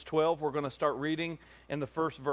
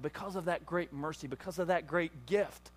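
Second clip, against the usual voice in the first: soft preaching; 5 dB quieter than usual. Real, not acted. Drops soft after climax.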